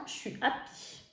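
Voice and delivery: whispered contentment. Real, not acted. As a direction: breathe it out softly. Chuchote sa joie. (murmure son bonheur à la caméra)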